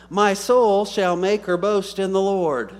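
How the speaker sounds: loud, high, slow proclamation; scripture declamation. Real, not acted. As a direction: proclaim the verse out to the congregation. Reading scripture aloud to congregation.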